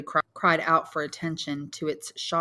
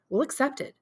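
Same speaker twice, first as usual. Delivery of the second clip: son briskly taking stock; lightly voiced young Albert; 4 semitones higher than usual.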